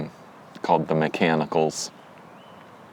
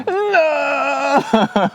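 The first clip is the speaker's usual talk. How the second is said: mock shock; 6 dB louder than usual. Mock dramatic denial.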